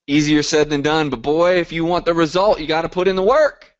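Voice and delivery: put-on pep-talk push like an old coach; football coach. Coach rallying his call members, lightly coach-voiced. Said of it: "I'm like my old football coach".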